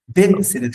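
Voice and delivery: "Betseret" sounded out in three beats; three syllables. Shown as a demonstration. Teacher shows the only exception, in three syllables. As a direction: give "Betseret" all three syllables, firmly. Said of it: "que tiene tres sílabas".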